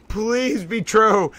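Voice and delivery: slow "please be true" through a laugh, falling on "true". Real, not acted. Streamer hoping the rumor is real, slow laughing plea. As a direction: giggle out the wish, drawn out. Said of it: "Oh, this is incredible!".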